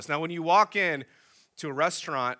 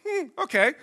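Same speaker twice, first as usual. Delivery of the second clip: sceptical hmm; 6 dB louder than usual. Retold or imitated. Reacting to server's refusal.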